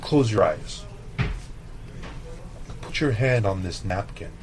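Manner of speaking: imitating a soft, gentle instruction; retold gentle hush, lightly done. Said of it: "in a very gentle voice".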